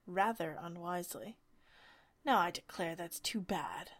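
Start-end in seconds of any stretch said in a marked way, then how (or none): 2.2-3.9 loud indignant exclamation; indignant Humpty Dumpty outcry; cried out. Acted. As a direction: cry it out, offended. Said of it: "Humpty Dumpty cried".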